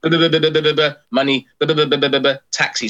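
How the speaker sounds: babbled imitation of broken English; broken English accent. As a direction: mimic half-heard phone talk in broken English. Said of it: "broken English kind of accent".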